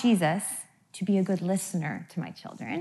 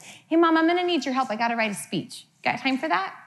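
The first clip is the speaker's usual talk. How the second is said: sweet boldness; 4 semitones higher than usual. Retold or imitated. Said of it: "a sweet boldness".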